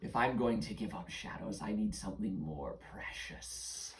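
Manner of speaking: lightly voiced demanding creature; shadow creature. Shadow creature bargaining with children over shadows, lightly menacing. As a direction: refuse with understated menace, sinking at the end.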